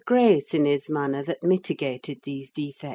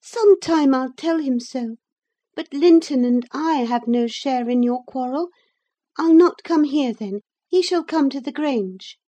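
put-on high, lively young girl; bright eager girl chiding her uncle; 9 semitones higher, 6 dB louder than usual. A narrator's reading. Young Catherine's voice.

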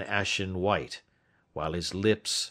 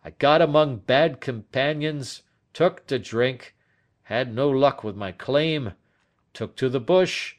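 put-on animated, slightly raised old man's confession; confessing old Turner; 5 semitones higher, 6 dB louder than usual. Old man confessing his past to detective, animated. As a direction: recount the wild youth with a little force.

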